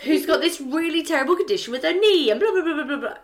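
high, laughing ramble; laughing confession. Real, not acted. Telling friends about her rambling excuse, laughing and high. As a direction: rattle on, amused at your own blunder. Laughing through own embarrassing story.

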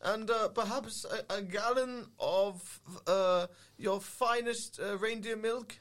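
very slow, deliberate reindeer drawl. Acted. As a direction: draw out the order grandly. Player voicing reindeer.

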